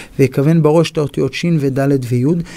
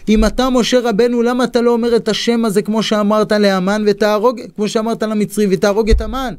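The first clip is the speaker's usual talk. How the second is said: raised pitch, lightly voiced questioning queen; Queen Esther asking; 6 semitones higher than usual. Esther asks Mordechai why he won't use the name, higher. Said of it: "שואלת אסתר המלכה את מרדכי".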